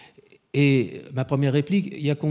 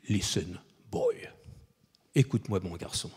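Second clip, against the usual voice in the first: put-on a dignified older actor calming a young director; Sean Connery; 6 semitones lower, 10 dB quieter than usual. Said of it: "la tonalité et la dignité qu'il fallait". (voix grave, lente et douce, pleine de dignité)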